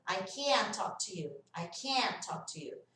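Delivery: long drawn-out vowel in "can't", T swallowed; slow down on "can't", let its T disappear; stretched negative "can't". Shown as a demonstration. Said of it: "Ele fica mais estendido". ("can't" esticado, sem soltar o T)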